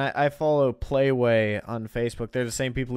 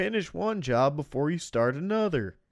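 put-on old prospector voice; 4 semitones higher than usual. Quoting an old game's prospector who yells at you: imitating a yelling old prospector. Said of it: "this old prospector type guy would just yell at you".

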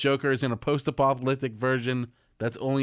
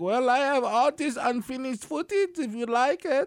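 very high-pitched voice with a put-on German accent; 12 semitones higher than usual. Joking about the Snyder cut, acting out its director, Zack Snyder impression, mock German accent. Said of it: "Is that how he sounds? I didn't think he was like German".

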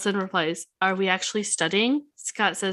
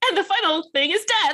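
play-acted sunny, cheery delivery, very high pitch; 9 semitones higher, 3 dB louder than usual. Retelling how she said a line from the script, imitating a happy delivery. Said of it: "she says it like so happy".

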